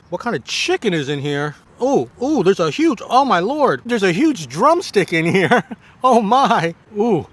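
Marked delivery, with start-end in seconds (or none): 1.8-7.3 excited discovery. Real, not acted. Finding a huge drumstick.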